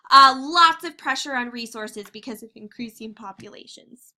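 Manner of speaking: talking through hiccups; hiccupping mid sentence. Real, not acted. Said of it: "Sorry, I have the hiccups".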